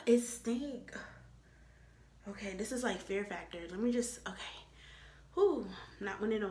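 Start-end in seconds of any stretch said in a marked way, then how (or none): 0.1-0.9 whispered disgust at it stink. Real, not acted. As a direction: hiss it stink under your breath.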